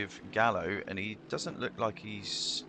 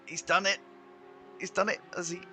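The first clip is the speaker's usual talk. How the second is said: excited; 9 semitones higher, faster than usual. Real, not acted. Overtake completed in wet race.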